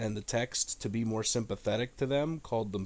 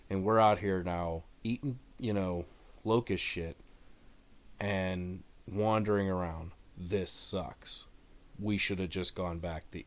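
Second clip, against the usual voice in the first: mock grumbling; 4 semitones lower than usual. Voicing doubting Israelites.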